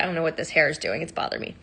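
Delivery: muttered to herself; whispered aside. Real, not acted. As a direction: whisper it under your breath. Annoyed aside about her hair.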